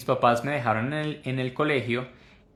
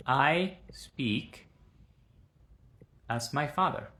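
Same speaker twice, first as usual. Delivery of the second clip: quiet "I speak as my father"; soft model sentence; 2 semitones higher, 4 dB quieter, slower than usual. Shown as a demonstration. Teacher offering an English example softly. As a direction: read it gently as an example. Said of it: "esta oración algo así como".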